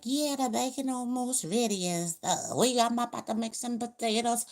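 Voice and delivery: the worker chatting about breakfast, high and loud; caught-out employee. Retold or imitated. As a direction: blurt it out without realising the boss hears.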